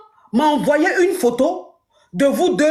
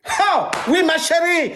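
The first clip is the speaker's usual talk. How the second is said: mock cheer; 4 semitones higher than usual. S0 cries out at story's end.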